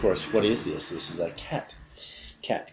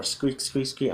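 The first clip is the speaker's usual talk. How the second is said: higher-pitched pretend mouse squeaks; 5 semitones higher, slower than usual. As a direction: squeak it lightly like a little mouse. Mimicking a mouse squeak for gesture.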